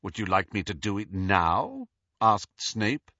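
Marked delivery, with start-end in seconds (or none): 0.0-1.9 heavy irony. Acted. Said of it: "his voice heavy with irony".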